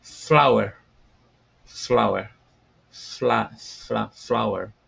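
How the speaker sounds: loud, clear "Flower" repeated; modelling a word. Shown as a demonstration. Teacher repeats "Flower" loudly for the class. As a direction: say "Flower" clearly, then break it down. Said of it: "Começando pela flor".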